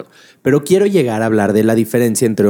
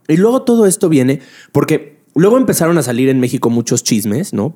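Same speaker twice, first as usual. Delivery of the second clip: chewing while talking. Real, not acted. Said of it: "me estaba comiendo un manguito".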